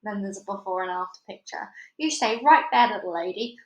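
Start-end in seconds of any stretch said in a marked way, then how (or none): 2.0-3.6 shouted. Acted. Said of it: "shouted the sheriff".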